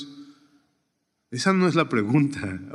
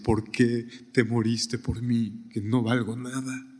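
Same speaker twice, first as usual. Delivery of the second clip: tearful plea; 4 dB quieter, slower than usual. Retold or imitated. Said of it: "chillando, diciendo".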